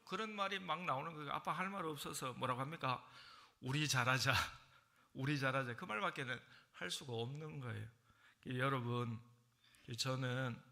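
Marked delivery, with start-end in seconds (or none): 3.6-5.8 sheepish plea. Retold or imitated. Father with nothing to say.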